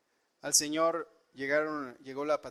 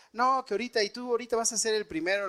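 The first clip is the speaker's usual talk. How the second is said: retold threat; 7 semitones higher, 3 dB louder, faster than usual. Armed man threatens them.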